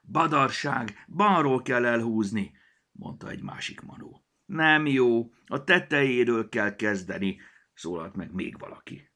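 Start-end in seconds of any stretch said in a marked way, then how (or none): 0.0-2.5 arguing gnome. A narrator's reading. Gnomes argue. 4.4-7.4 arguing gnome. A narrator's reading. Gnomes argue.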